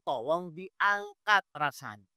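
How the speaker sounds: very slow, softened plea; pleading prayer. Acted. Ustadz models begging Allah for relief, slow and pleading. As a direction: draw out each word as a gentle request. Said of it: "baru Ibu mohon".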